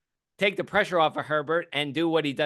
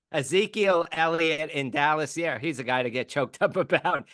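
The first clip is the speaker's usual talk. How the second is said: laughing. Real, not acted. Still laughing after the joke.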